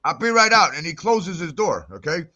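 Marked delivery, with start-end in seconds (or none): 0.0-0.7 mock baker voice. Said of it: "He goes".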